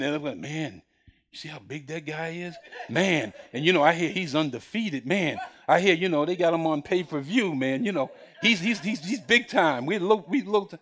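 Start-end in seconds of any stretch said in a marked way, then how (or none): 0.4-9.9 lower, softer street-talk Bronx voice; Bronx version. Retold or imitated. Brothers whisper to David about Goliath in Bronx slang. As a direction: gossip like Bronx guys in awe. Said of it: "I'm gonna give you the Bronx version".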